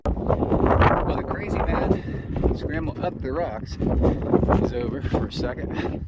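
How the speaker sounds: panting, slow breathy words; out of breath. Real, not acted. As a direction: gasp out words after a climb. Breathless after scrambling up rocks.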